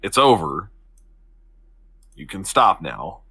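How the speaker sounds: low, slow, gently reassuring; calm. Acted. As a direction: talk someone down calmly, leaving pauses. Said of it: "calmly put my hand on his shoulder slowly and go".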